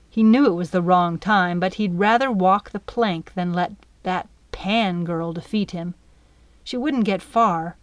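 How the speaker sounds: usual speaking voice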